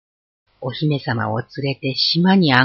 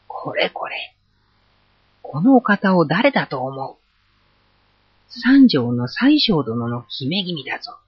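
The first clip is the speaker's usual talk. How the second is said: small warrior puffing himself up and bellowing; tiny hero shouting. Acted. Tiny Issun-boshi warns two ogres: hammed-up shout. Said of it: "と怒鳴りました".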